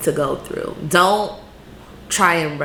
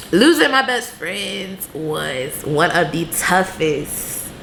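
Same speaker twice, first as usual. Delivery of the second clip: tearing up. Real, not acted. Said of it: "I am tearing up talking about".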